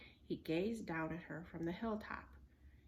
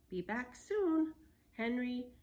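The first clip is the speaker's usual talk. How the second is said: light, cheery higher farewell; cheerful girl; 4 semitones higher, 5 dB louder, slower than usual. A narrator's reading. Girl waving goodbye to a pterodon, cheerful. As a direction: sing it out happily. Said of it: "she said cheerfully".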